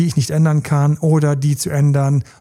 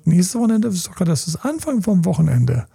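high incredulous question, then sinking; disappointed; 3 semitones higher than usual. Acted. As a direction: act a let-down girlfriend protesting. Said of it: "Und sie so ganz enttäuscht". (gespielt ganz enttäuscht)

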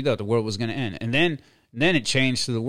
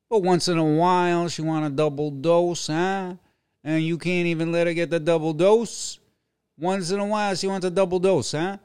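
taunting, sing-song and high; high mocking taunt; 7 semitones higher, 3 dB louder than usual. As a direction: tease him with a high mocking voice.

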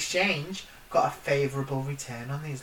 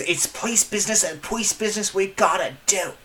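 put-on New York cop accent; 3 semitones higher than usual. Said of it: "my line was".

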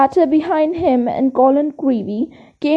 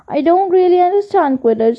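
breathless; 4 semitones higher than usual. Acted. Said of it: "said Colin breathlessly".

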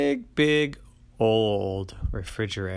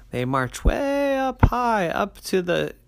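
whispered climb; 11 semitones higher, 6 dB louder than usual. A narrator's reading. Narrating grapes climbing high.

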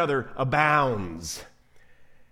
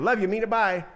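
rushed catchphrase; 4 semitones higher than usual. Retold or imitated. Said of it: "kind of a catchphrase".

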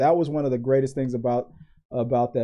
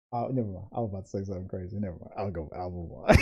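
quiet muttering; 6 semitones lower, 9 dB quieter, faster than usual. Real, not acted. Backing off a crazy remark.

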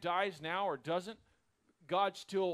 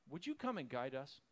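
mock sweet offer; 3 semitones lower, 7 dB quieter than usual. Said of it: "the silly nature of this".

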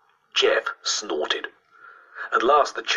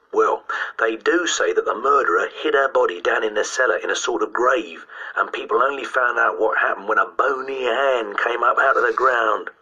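put-on higher-pitched boy spinning a gruesome rumour; schoolboy ghost-story teller; 5 semitones higher than usual. Boy giving classmates more grisly detail, spooky relish. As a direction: keep spooking them like an eager schoolboy.

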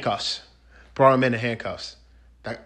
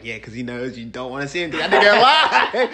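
laughing mock thought; 3 dB louder than usual. Voices sceptical thought, breaks into laughter.

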